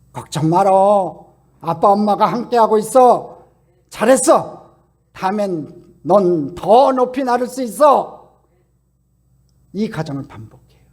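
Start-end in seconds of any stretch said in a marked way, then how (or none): 0.1-8.4 slow, loud, comforting promise; reassuring parent. Acted. Parent eagle catching its chick and reassuring it slowly. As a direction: soothe the chick you just caught. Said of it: "받으며 이렇게 말해요".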